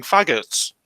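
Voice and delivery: whispering under breath; whispered. Real, not acted. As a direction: drop to a whisper. Muttering slur under breath.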